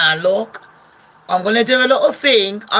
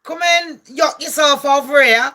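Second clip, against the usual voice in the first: lightly acted higher-pitched summons; mock calling out; 4 semitones higher than usual. Private-jet set calling to Greta, mock beckoning. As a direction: call Greta over, playfully hammed up. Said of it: "they're like".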